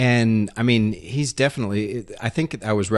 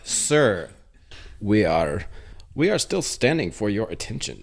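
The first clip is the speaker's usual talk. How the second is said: bad Finnish accent. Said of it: "That's a terrible accent".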